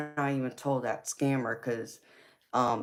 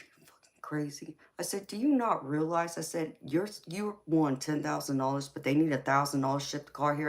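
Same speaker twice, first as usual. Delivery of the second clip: raised, sharper retold disbelief; wife repeating the scam pitch back at husband, incredulous; incredulous mock outrage; 3 semitones higher than usual. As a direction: throw his words back at him in disbelief. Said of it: "I was so freaking mad".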